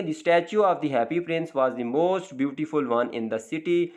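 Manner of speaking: very slow, careful reading of the English example; slow dictation reading. Shown as a demonstration. Teacher reads the example sentence slowly to the class. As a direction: spell it out for students word by word.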